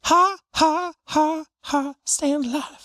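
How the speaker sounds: high laughing tease; laughing mockery. Real, not acted. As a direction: laugh it out while mocking. Teasing friend about fancy milk.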